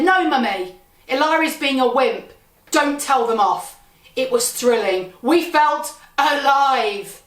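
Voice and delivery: put-on loud, insistent child voice, building to a drawn-out finish; exhilarated little sister. Little sister overrules mum after the thrilling ride, loud and exhilarated. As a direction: play a thrill-drunk small girl.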